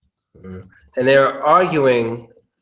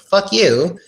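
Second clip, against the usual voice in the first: nice-sounding insult; 4 semitones higher, slower than usual. Shown as a demonstration. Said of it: "it just sounds nice".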